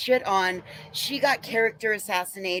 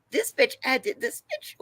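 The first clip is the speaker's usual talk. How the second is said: angry; 7 semitones higher than usual. Real, not acted. Furious rant about betrayal.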